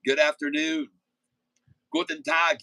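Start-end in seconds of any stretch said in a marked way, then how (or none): 1.9-2.6 high falsetto German greeting. Pretend.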